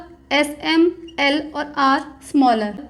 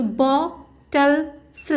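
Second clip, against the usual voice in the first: stretched word; much slower than usual. Shown as a demonstration. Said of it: "तो word को first place से".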